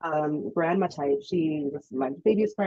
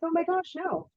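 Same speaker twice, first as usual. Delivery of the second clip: voicing the baby; 11 semitones higher, 3 dB quieter than usual. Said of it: "you'd be like".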